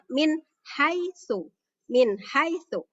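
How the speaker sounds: "Min" and "haitsu" kept distinct; clear reading. Shown as a demonstration. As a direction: clean n in "Min", then a clear h. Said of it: "Jadi jelas bacanya".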